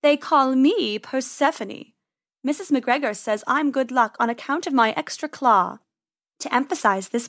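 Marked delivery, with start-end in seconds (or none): 0.0-5.8 snooty bored cat. Acted. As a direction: purr it like a proud cat. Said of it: "Persephone purred".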